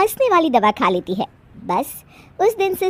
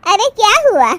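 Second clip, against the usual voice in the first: taken aback; 10 semitones higher, 6 dB louder than usual. Acted. Guest questions the sudden laughter.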